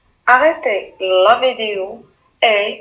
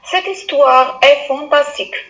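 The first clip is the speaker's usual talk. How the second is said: exclamation; 3 semitones higher than usual. Shown as a demonstration. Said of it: "Phrase numéro quatre".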